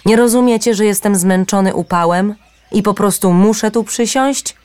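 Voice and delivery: tired bird snapping back at stones. A narrator's reading. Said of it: "krzyknął". (podniesiony, zirytowany krzyk)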